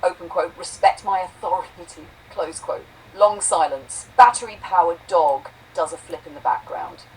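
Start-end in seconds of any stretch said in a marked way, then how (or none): 0.6-2.1 loud angry snap; snapping. Acted. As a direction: bark it at him. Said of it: "Then Boo snaps".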